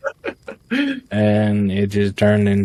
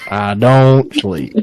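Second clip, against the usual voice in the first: slow deliberate; 4 semitones higher, 4 dB louder, slower than usual. Shown as a demonstration. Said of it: "repeats line in own take".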